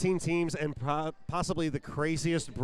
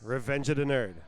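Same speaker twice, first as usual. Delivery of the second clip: roster call. Acted. Announcing the Virginia roster to the crowd, arena announcer. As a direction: stretch each skater's name out for the crowd.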